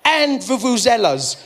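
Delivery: slow solemn declaration; slow mock solemn verdict; grave pronouncement. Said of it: "he went".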